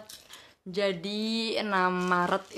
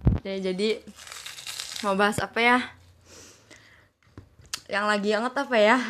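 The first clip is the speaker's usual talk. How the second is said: talking while chewing chips; words round a mouthful of chips; crunching chips. Real, not acted. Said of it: "dari tadi denger kriuk-kriuk, itu kita lagi ngunyah keripik kulit". (sambil mengunyah keripik)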